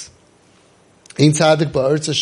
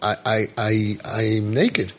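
ashamed Adam; 5 semitones lower, slower than usual. Acted. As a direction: mumble it out in shame. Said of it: "So Adam says".

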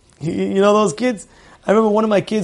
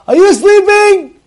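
much higher, slow and louder, calling up the stairs; calling out upstairs; 12 semitones higher, 4 dB louder, slower than usual. Retold or imitated. Father calling up to his little daughter, loud. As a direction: holler up to check she's asleep. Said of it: "I scream out".

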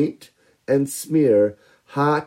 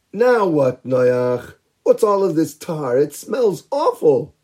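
annoyed villagers; 5 semitones higher than usual. Acted. People complain about tar.

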